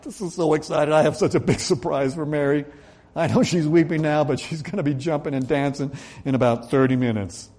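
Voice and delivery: lightly voiced, bubbling over a big surprise; giddy Jesus. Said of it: "Jesus would be giddy".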